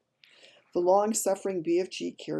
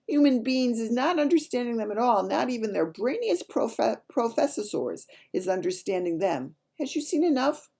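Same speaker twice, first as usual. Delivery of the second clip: higher-pitched, animated giant character voice; BFG; 8 semitones higher, 4 dB louder than usual. Acted. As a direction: lecture earnestly as a storybook giant.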